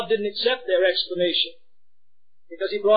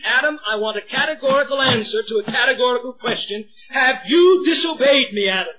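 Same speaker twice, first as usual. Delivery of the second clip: stern God demanding; 4 semitones higher than usual. Acted. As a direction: press for the truth like a judge. God demanding answer, voiced.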